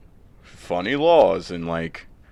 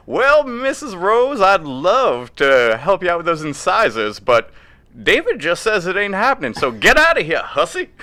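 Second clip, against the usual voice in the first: put-on southern accent; 8 semitones higher, 3 dB louder than usual. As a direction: play a Southern dentist brushing her off in a put-on Southern accent. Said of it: "Why are you doing it with a southern accent?".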